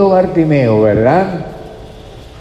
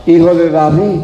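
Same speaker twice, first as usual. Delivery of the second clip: mildly raised, higher call; crying out; 4 semitones higher, 3 dB louder than usual. Retold or imitated. Blind man clamouring over those hushing him, calling out. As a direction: call it out as a retold plea. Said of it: "él clamaba mucho más".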